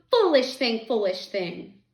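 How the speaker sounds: loud cry fading to ordinary volume; stricken lament. A narrator's reading. Missus Griffin over her dead cat, fading lament. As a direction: repeat it helplessly, falling away. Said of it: "was all Missus Griffin was able to say".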